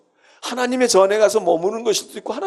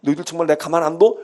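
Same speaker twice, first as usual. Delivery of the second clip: a touch of a stern scolding, quickening at the end; understated rebuke of the wicked; mock scolding; 2 semitones lower, faster than usual. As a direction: lightly scold the liars as God would. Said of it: "이러고 야단치시면".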